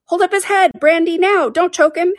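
very high, excited crowd chatter; high-pitched flustered characters; confusion of voices. A narrator's reading. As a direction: fire off overlapping crowd orders. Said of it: "another confusion of voices".

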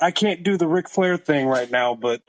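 rough, worn-out voice; hoarse from yelling. Real, not acted. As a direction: voice shot from cheering. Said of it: "sorry, my voice is kind of shot".

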